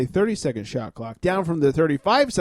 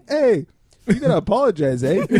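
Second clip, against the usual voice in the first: mock Canadian; 5 semitones higher, 3 dB louder than usual. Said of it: "Canadian foul would be like".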